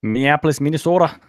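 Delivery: badly faked Minnesota accent. Naming the brewery's home city, terrible Minnesota accent. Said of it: "my accent that I just did is laughing".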